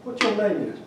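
lightly voiced Cajun judge; Cajun accent. Cajun judge asks the carver's name, Cajun accent. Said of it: "try to do my Cajun accent".

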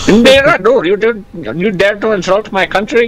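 hammed-up offended foreigner; mock outrage. Mock outrage in invented nationality.

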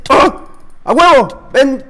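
loud, high victory yell; triumphant shout. Real, not acted. Player winning a fight, loud triumphant shout. Celebrates a kill in the game.

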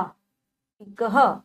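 पी कह drawn out very slowly, syllable by syllable. Shown as a demonstration. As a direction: stretch out पी कह for the class. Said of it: "teacher repeats word slowly".

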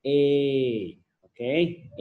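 "A" held out as a long vowel. Shown as a demonstration. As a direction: stretch "A" into a long, steady "ay". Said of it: "ก็ออกเสียงยาวนะครับ". (ออกเสียง "A" ยาว)

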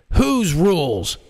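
slow, high, shocked question; shocked president. Acted.

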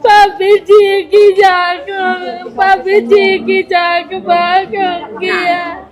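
slow, loud sung keening of real grief; wailing lament. Real, not acted. Widow grieving her dead husband, slow loud wailing lament. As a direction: draw the words out in a mourning wail. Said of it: "ਵਿਦਿਆ ਤੈਨੂੰ ਰੋਂਦੀ ਨੂੰ ਦੇਖਦੀ ਆ".

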